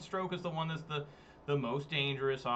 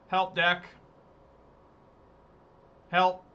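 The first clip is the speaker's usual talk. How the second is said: mock plea to deck; 4 semitones higher, 8 dB louder, slower than usual. Real, not acted. Begging for a good top deck.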